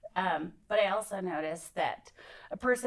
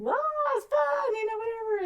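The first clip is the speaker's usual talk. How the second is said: mock excited kids; 5 dB louder than usual. Kids at the cliff, retold.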